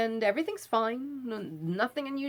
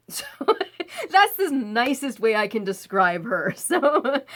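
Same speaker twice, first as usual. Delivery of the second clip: awkward laugh; 3 semitones higher, 7 dB louder, slower than usual. Real, not acted. Laughs at her harsh description.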